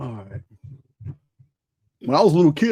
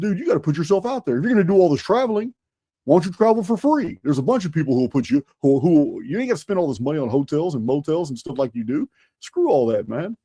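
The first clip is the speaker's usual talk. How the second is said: urging friend; 3 semitones higher than usual. Retold or imitated. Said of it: "I said".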